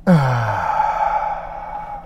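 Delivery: long held breath released slowly; deep exhale. Real, not acted. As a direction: let it all out after holding. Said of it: "Hold it, make it hurt, and then release".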